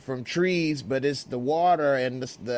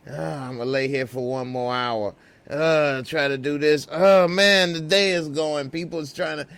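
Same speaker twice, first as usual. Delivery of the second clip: lightly voiced overworked hustler, higher and groaning; mock frazzled grind; 5 semitones higher, 4 dB louder than usual. Busy hustler complaining time runs out, mock groaning. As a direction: whine about never having enough time. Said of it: "you be like".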